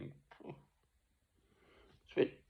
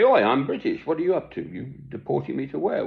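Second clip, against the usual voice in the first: mock indignant retort to the police; imagined retort; 5 semitones higher than usual. Man at his door tells police off, mildly indignant. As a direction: sound put out, pitch up a bit. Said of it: "I'd say".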